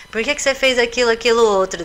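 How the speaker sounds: mother demanding answers from her son; scolding mother. Pretend. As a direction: rattle off the telling-off like a cross mum. Mother scolding child, acted example.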